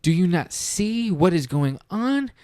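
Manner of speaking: high, panicked warning to the farm; frantic donkey pleading with the others; freaking out. Acted. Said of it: "he starts freaking out".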